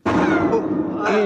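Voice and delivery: a sudden high startled oh; surprised oh. Acted. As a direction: react as if caught off guard. Guide reacts to safety question.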